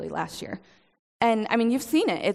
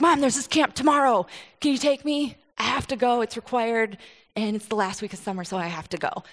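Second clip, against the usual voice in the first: put-on pleading teen; 3 semitones higher than usual. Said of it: "I was like".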